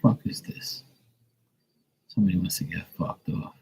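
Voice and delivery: whispered threat under the breath; angry whisper. Real, not acted. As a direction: hiss it at the intruder. Muttering at the noisy car.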